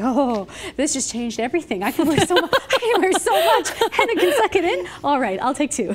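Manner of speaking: laughing, thrilled, going up high; laughing delight. Retold or imitated. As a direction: gush through a laugh. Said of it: "I was like".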